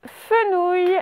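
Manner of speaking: fenouil drawn out slowly, each syllable clear; teacher slowly dictating fenouil; slow dictation. Shown as a demonstration. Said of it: "vous écrivez".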